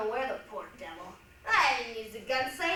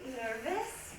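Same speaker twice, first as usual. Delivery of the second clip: quiet concern; 3 semitones lower, 8 dB quieter than usual. Acted. Pilot asks a passenger.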